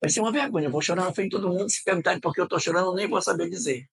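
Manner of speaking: high, hurried worry about crying; worried rush, pitched well up; retold near-tears panic. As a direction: retell a rising fluster, fast and high. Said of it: "ela disse, Meu Deus, eu não vou segurar".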